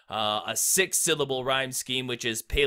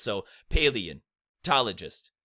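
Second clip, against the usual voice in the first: slow, syllable by syllable; syllables stressed; 3 semitones lower, slower than usual. Shown as a demonstration. Teacher breaking word into syllables, slowly. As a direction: break paleontologist into its syllables for students. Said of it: "two stressed syllables in paleontologist".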